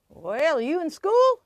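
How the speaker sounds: lightly voiced grandfather, lifting into the question. Grandfather quizzing his grandchild, lightly imitated with a rising voice. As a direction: imitate grandpa, voice jumping up at the end. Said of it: "he'd go".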